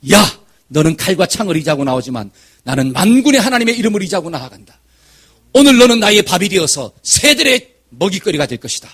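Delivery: David's battle cry, loud at the start and close; forceful retort with punched openings; shouted defiance. Retold or imitated. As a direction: proclaim it boldly to the giant. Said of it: "외치고 탁 나갔어요".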